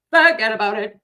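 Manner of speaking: loud Boston "Forget about it" with a dropped r in "Forget"; big-mouth Boston broad, "Forget about it" belted out; Boston accent. Shown as a demonstration. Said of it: "I just am a big mouth broad".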